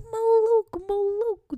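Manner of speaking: high, sharp cry of alarm; high startled yelling; alarmed shout. Retold or imitated. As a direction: shout it at a crazy scene. Woman hitting her boyfriend.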